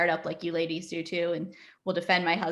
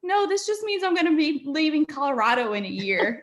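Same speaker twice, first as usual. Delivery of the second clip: high mock-tearful protest; retold crying; 9 semitones higher, 3 dB louder than usual. Engaged woman to fiancé about leaving Colorado, mock-tearful protest. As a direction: wail it lightly, pitched way up. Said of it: "I was crying".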